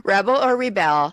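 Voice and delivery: REBel or reBEL; noun stress, then verb stress. Shown as a demonstration. Quiz host listing noun and verb pairs, shifting stress on "rebel". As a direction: stress "rebel" on the first syllable, then on the second. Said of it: "accent on the second syllable".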